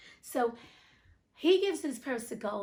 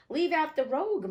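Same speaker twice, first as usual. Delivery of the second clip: higher, louder indignant retort; indignant protest; 7 semitones higher, 6 dB louder than usual. Acted. Miser objects to being called a rogue, loud and high. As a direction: push back hard on the insult.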